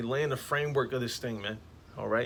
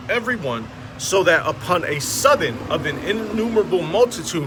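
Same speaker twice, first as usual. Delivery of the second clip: louder, solemn King James reading; scripture reading; 3 dB louder than usual. Acted. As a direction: proclaim the verses like a preacher.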